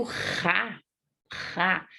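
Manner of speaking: guttural rasped R in "rá"; "rá" with a hard back-of-throat R; strong R. Shown as a demonstration. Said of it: "o som é forte".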